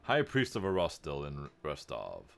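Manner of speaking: slow, weighty priest voice; deep voice. Acted. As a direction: state the title slowly, mock-deep. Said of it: "he says in a deep voice".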